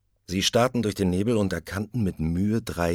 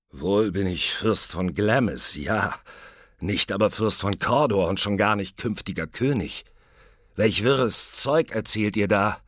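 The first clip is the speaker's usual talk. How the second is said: louder, indignant nobleman protesting; agitated Macbeth; 4 semitones higher, 5 dB louder than usual. Acted. Macbeth rejecting the witches' claims, rising indignation. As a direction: push back at the nonsense.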